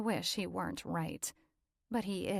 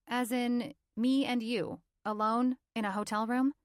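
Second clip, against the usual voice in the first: higher and louder, pausing on each phrase; lightly voiced heroine, pointed; 5 semitones higher, 6 dB louder than usual. A narrator's reading. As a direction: spell out the suggestion, suspicious.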